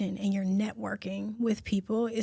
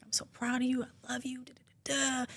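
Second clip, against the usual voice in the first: softly imitating dad; 7 dB quieter than usual. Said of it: "He's always been like".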